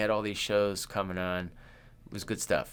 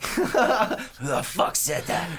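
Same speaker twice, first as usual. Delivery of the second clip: mock drunken outrage; 8 semitones higher, 4 dB louder than usual. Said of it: "he looks clearly drunk and coked up".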